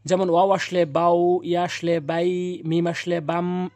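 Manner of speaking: বাউ, বাই, বাম slowly drawn through the nose; slow nasal ghunna demo; nasal drawn reading. Shown as a demonstration. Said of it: "গুণনা করে টেনে পড়তে হবে".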